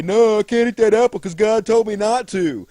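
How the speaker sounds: lightly voiced goody-goody; a hint of a nerdy whine; imagined dorky refusal. Adam mocking how a dork would sound, lightly whiny. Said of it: "What am I gonna say".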